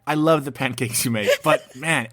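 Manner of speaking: pretend kid voice. Host voicing the kid telling real dad about the backup dad's pancakes, mock pleading.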